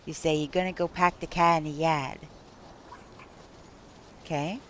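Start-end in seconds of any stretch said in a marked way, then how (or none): 0.3-2.2 Boston accent, pack the car with no r sounds; Boston accent demo. Shown as a demonstration. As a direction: drop the r like a Bostonian. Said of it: "if you're from Boston".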